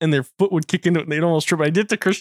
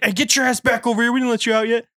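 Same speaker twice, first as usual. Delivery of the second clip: higher-pitched mock reprimand; imitated scolding teacher; 7 semitones higher than usual. PE teacher catching kids sneaking out, mock scolding. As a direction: call the kids back like a fed-up coach.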